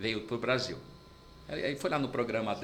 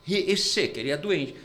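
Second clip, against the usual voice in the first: upset waiter, a little louder; shocked waiter; 3 dB louder than usual. Retold or imitated. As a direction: insist he is sick. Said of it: "o americano voltou e falou". (garçom chocado insistindo)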